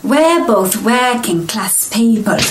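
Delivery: put-on northern working-class accent, slipping toward Geordie; drifting Geordie accent. Dialect coach claiming working-class roots, wandering Geordie accent. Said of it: "my favourite bits".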